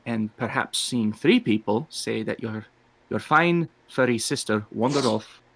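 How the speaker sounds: put-on accented cat-person, measured and hesitant; Torben. Tabaxi coaching the lad on a cover story, confidingly. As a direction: lay out the plan discreetly in character. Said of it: "make it work with the accent".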